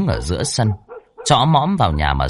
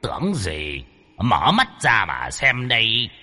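scoffing; 4 dB quieter, slower than usual. Acted. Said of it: "Lão sắc quỷ cười khẩy".

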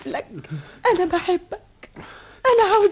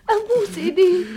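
begs through a sob, a little louder; tearful begging; 4 dB louder than usual. Acted. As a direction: plead with a catch in the voice. (توسل باكٍ)

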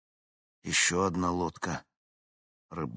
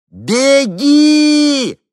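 very high, very loud scream; full scream; 16 dB louder than usual. A narrator's reading. Henni screams to the woman from the helicopter, full scream. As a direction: shout with all your might.

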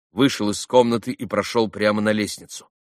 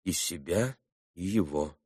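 soft, much quieter answer; quietly; 3 semitones lower, 8 dB quieter than usual. A narrator's reading. Alyosha answering Katerina quietly. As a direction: say it low and careful. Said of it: "проговорил он тихо".

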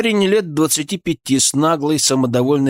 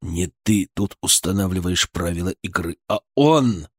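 lower, understated hard tone; hardened voice; 5 semitones lower than usual. Acted. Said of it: "Его голос стал жёстким". (жёстко, низким голосом)

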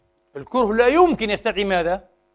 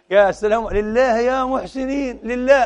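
high, slow whining plea for alms; mock beggar; 6 semitones higher, 3 dB louder, slower than usual. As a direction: drag out lillah like a street beggar. Beggar at the door, acted again. (متسول يستجدي بصوت عالٍ ممطوط)

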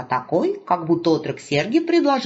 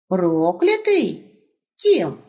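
surprised wolf; much slower than usual. Acted. Wolf asks.

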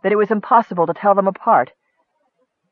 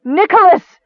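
high, anguished cry of "Nicholas"; loud, grief-stricken wail; ragged with grief; 11 semitones higher, 6 dB louder than usual. A narrator's reading. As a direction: cry out his name in grief. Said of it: "Nicole's voice, ragged with grief".

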